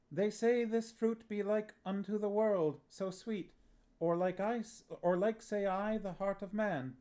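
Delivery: high, grand stage declamation; the young actor reciting the worm speech, grand and high; theatrical recitation. A narrator's reading. Tom John recites tyrant's worm speech.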